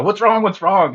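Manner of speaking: high, loud mock-alarmed questioning; hammed-up urgent "what's wrong?"; imitated alarm. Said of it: "He'd come running in".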